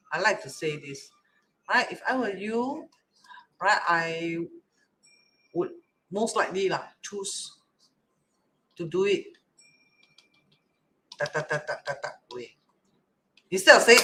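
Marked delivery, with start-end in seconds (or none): 1.9-12.6 soft, tentative advice; nicely. Shown as a demonstration. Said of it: "And I say it nicely".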